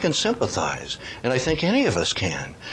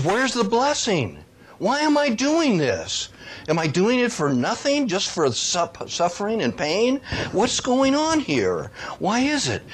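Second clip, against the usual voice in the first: anguished prophet's cry; 9 semitones higher than usual. Retold or imitated. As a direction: cry out to God as the worn-down Jeremiah. Jeremiah's anguished complaint voiced.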